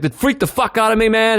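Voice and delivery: kind of freaking out. Retold or imitated. Shaken victim confides in strangers, kind of freaking out. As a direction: imitate a man who just got scared. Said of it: "He was, like, kind of freaking out".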